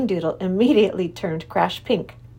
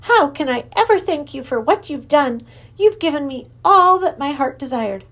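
high, jolly creature king; a cheerful high king; Wangdoodle king; 6 semitones higher, 4 dB louder than usual. Acted. King thanking professor.

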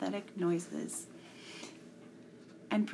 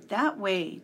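put-on loud boyish yell; 6 dB louder than usual. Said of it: "Tom yelled".

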